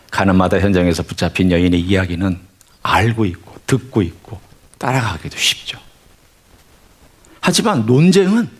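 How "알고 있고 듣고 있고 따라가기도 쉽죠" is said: whisper. Real, not acted. Aside in sermon.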